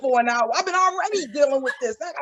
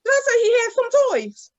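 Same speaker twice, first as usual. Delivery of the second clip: mock exasperation; 5 semitones higher than usual. Shown as a demonstration. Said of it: "rhetorical emphasis".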